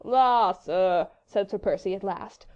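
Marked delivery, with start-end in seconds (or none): 0.0-1.1 louder foppish exclamation; undisguised wonderment. A narrator's reading. Sir Percy eyeing the young Frenchman, foppish wonderment. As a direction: drawl it in mild amazement. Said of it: "with undisguised wonderment".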